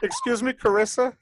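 high, loud, laughing interruption; calling for attention. Real, not acted. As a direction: break in loudly, half laughing. Calling for Carissa over the others.

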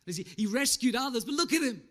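jeering, sneering voice; mock him like the crowd at the cross. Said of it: "they started to snigger and mock".

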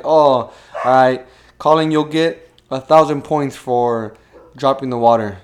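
loud, slow host announcing points; game show host. Retold or imitated. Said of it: "he'd be like".

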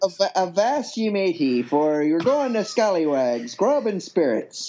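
a lightly voiced pirate, slowed; mild mock pirate pitch. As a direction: announce the tavern like a cheery buccaneer. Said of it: "needs to be done in a pirate voice".

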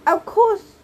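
high, loud screamed reply. A narrator's reading. Anger by the shotgun window, screamed reply. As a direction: scream it as if it were obvious. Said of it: "screamed Anger".

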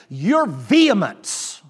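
slow, lightly voiced disapproving old lady; drawn-out reproach from a prim matron; prim scolding lady. Lady scolds the pastor for his vehemence, slowly. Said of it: "she said".

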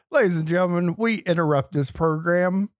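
mock newscaster opening; lightly voiced broadcast announcer; old radio announcer. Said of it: "rolls off the tongue a little better".

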